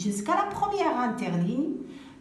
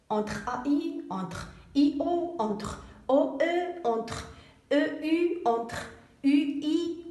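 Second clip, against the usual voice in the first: slow listing of pairs; 4 semitones higher than usual. Shown as a demonstration. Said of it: "Quand S se trouve entre deux voyelles".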